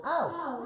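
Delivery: a small silly yelp; mock ow. Shown as a demonstration. Coach showing the ow for each flower pick, light mock yelp. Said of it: "So like this".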